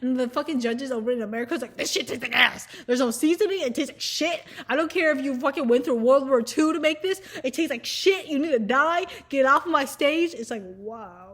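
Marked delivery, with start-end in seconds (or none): 1.8-10.3 loud, ranting mock judge tirade; mock angry judge. Judges to the contestant, a loud mock angry rant. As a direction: bark it out like a furious judge.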